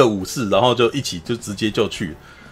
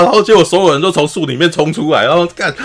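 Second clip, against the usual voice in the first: normal talking voice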